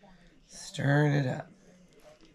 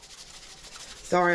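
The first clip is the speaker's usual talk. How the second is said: lost voice whisper; 2 semitones higher than usual. Real, not acted. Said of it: "I lost my voice".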